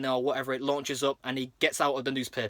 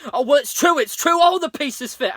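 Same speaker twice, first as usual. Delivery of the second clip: mock crying; 10 semitones higher, 8 dB louder than usual. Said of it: "bursts in tears and is like".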